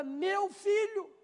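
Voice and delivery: mother claiming her son, slow and fond; doting mother. Retold or imitated. Mother boasting of her son, drawn out and high. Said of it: "Tem mãe que fala".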